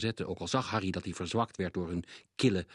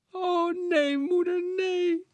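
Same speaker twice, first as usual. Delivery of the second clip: high, loud, terrified pleading; screaming boy; 6 dB louder, slower than usual. A narrator's reading. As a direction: beg not to be sent away. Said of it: "De jongen begon te gillen". (gillend en smekend)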